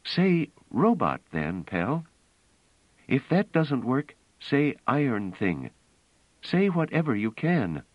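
a woman insisting on the plan; Bliss, urgent and intent. Acted. Bliss urging Pellerat to play robots, earnest.

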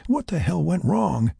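slow, high-pitched bewildered question; wondering. A narrator's reading. Frank to himself as his suit floods, wondering. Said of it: "he wondered".

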